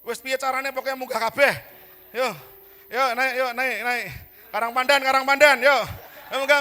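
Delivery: loud, high shouts hauling people aboard; frantic shouting. Acted. Preacher playfully hauls congregants onto the ark, shouting loud and high. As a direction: bellow like a man loading a packed boat.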